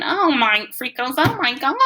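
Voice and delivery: high, loud, delighted gasp; a kid who can't believe it; squealing with glee; shrieking delight. A narrator's reading. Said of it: "he's shrieking and laughing and whooping".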